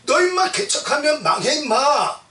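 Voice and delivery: half-acted fatherly elder brother telling him off; big brother scolding. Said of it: "큰 형 엘리압이 막 야단쳐요".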